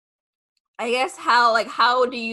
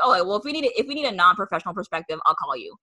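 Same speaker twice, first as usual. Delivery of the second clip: dismissive brush-off; faster than usual. Retold or imitated. Podcast hosts turning down an amateur dancer, mock dismissive. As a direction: imitate a dismissive host, quick then dropping. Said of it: "I guess a little disrespectful sometimes".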